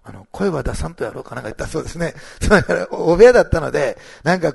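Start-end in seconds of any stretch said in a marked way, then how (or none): 0.3-1.4 rough attempt at Kumamoto dialect; imitated Kumamoto dialect. Preacher quoting the father's prayer request, imitated Kumamoto dialect. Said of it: "熊本弁だからうまく真似できないんですけど".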